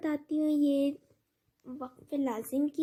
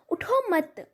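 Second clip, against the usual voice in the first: اٹھو مت as one firm unit, then stop; مت joined to اٹھو; 3 semitones higher, 3 dB louder than usual. Shown as a demonstration. Teacher showing the changed meaning, اٹھو مت said as one command. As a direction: attach مت to اٹھو and halt after it. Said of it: "آپ غور سے دیکھیے".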